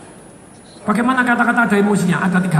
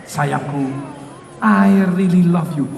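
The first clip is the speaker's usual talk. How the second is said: mock tender; 7 semitones lower, much slower than usual. Shown as a demonstration. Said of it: "itu nggak jatuh cinta".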